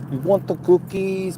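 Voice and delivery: put-on high, slow Czech-accented trainer. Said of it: "Got the accent like this".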